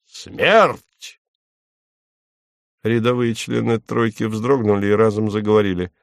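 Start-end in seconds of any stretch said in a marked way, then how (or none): 0.1-1.2 solemn verdict. Acted. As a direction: pronounce it high and final. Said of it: "первый говорю".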